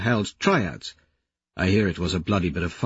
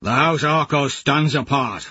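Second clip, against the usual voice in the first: calling back; 4 semitones higher than usual. Acted. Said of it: "Lorn calls back".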